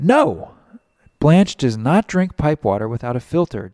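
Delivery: loud offended protest. Acted. Jean defends Blanche to Colby, loud and offended. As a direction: snap back, defending Blanche. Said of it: "And Jean's offended".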